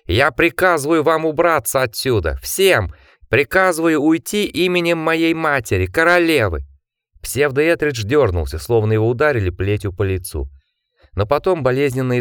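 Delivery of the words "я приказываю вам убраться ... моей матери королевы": high, commanding cry; yelled command. A narrator's reading. Jack orders the creature away in his mother's name, yelling. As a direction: call out an order with full authority. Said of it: "он заорал во всю глотку".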